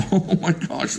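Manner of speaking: high, startled oh my gosh; surprised. Real, not acted. Reviewer gasps at the makeup coupon he drew, surprised. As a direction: caught off guard by a silly prize.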